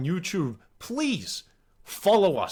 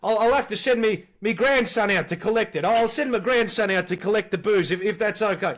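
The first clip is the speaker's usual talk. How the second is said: put-on decrepit old man; 5 semitones higher, 4 dB louder than usual. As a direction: ask for the slab like a frail old bloke. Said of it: "I used to say".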